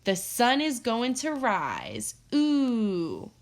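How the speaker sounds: a light squirrel's chirp, slow; piping up. Acted. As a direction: pipe up the squirrel's chant. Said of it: "Little Brown Squirrel piped up".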